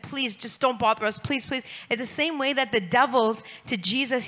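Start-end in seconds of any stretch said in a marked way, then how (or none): 0.0-1.6 pleading. Retold or imitated. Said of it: "came to plead with him".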